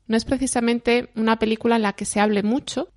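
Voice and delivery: measured documentary voice-over read; scripted podcast narration. Acted. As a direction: present it like a radio feature. Presenter reads scripted narration.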